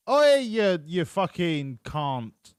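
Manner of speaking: imitating a driver yelling Oi in a rough Australian twang, then dragging the last words out slowly; a mock Australian driver shouting at a rival, then drawing the end out; mock Aussie shout. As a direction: bark it from a passing car like an angry Aussie. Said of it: "Australian accent".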